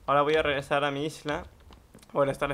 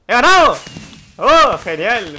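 very loud, high win cry; victory shout; 7 semitones higher, 15 dB louder, slower than usual. Real, not acted. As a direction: yell out the win. Wins the match. (grito de victoria)

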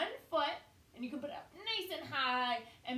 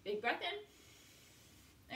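slow, whispered big breath in; breathy demo; 6 dB quieter, much slower than usual. Shown as a demonstration. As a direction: model a slow breath for kids. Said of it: "Let's do it one more time".

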